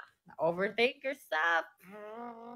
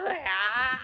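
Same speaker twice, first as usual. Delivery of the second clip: short acted wail; mock crying; 4 dB louder than usual. Showing how she cried at the second hug, wailing. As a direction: bawl out a pretend "ah". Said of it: "Ganun ulit ako".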